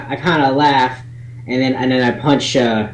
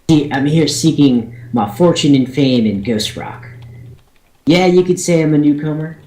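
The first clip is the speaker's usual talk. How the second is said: proud dwarf introduction; 2 semitones higher than usual. Acted. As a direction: announce your clan with pride. Dwarf introduces himself in character.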